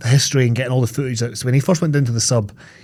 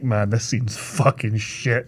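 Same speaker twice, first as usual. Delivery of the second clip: muttered; 2 semitones lower, 6 dB quieter, much slower than usual. Retold or imitated. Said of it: "the idea of him being like".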